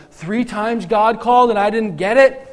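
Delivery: high, loud, rising disbelief; hammed-up exasperated questioning; mock self-reproach. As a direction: build to an incredulous outburst at your own blunder. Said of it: "I would feel like a dummy".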